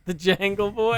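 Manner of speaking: put-on loud, high questioning "Jangle Boy"; imitated "Jangle". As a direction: echo "Jangle Boy" with the odd A. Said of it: "I say it this way".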